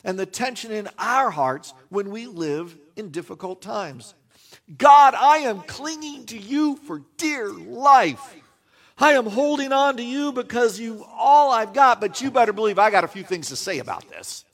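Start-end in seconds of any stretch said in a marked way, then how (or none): 4.8-14.4 cling on and then let the complaint spill out; desperate prayer. Retold or imitated. Preacher voicing Job, praying to God, desperate then rushed.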